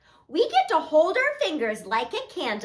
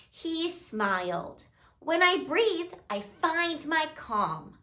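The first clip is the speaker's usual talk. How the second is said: put-on gentle, measured read-aloud to little kids; children's story narration; 4 dB quieter, slower than usual. A narrator's reading. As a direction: read a calming story, softly and unhurried.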